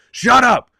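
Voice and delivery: high, loud imitation of a movie villain's yell; imitated furious shout. Streamer quoting the film's phone fight, furious imitated shout. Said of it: "He goes".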